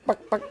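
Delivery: soft clucking chicken noise. Shown as a demonstration. Mocking his accent with a soft chicken cluck. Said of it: "You sound like a chicken".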